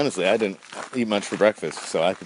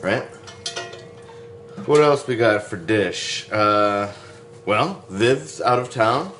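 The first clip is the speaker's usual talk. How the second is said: ordinary talk, nothing marked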